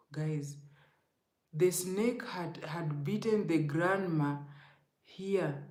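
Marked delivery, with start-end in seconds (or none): 0.1-2.6 unvoiced whisper, slower; hushed storyteller whisper; whispered suspense. Real, not acted. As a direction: drop to a whisper for the scary part. Building suspense in dream story.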